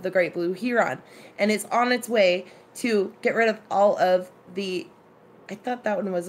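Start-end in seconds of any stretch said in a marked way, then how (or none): 0.0-1.0 "heron" said HEE-ron; long ee in "heron", full -ron; original HEE-ron pronunciation. Shown as a demonstration. Lamenting the original pronunciation, "heron" as HEE-ron. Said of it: "the original pronunciation of".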